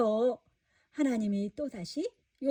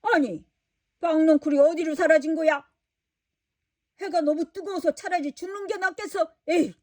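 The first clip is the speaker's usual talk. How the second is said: higher mildly angry grumbling; annoyed grumble; 4 semitones higher than usual. Acted. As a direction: grumble at the vanished vine. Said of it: "화가 났어요". (박넝쿨이 사라져 짜증내는 요나)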